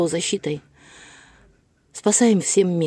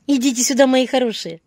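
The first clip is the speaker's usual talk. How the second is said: calling the dogs; 7 semitones higher, 5 dB louder than usual. Real, not acted.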